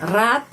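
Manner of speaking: рад with a rising question stress; stressed intonation. Shown as a demonstration. Teacher showing learners the question word, stressed intonation. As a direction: lean on рад, lifting it. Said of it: "Penekanan intonasi kita".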